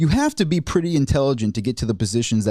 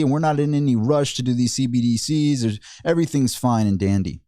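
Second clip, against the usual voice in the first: smug Powell. Retold or imitated. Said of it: "What he says is".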